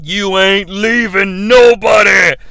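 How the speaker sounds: slow, loud threatening shout; menacing husband yelling at his wife; mock tough shout. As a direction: bark it like a gangster husband. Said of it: "he's like".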